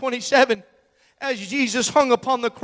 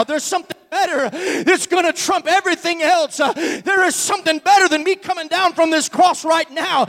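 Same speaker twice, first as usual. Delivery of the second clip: a private whisper of a thought growing into a declaration; Jesus' inner thoughts. Retold or imitated. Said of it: "I wonder if in his mind he thought".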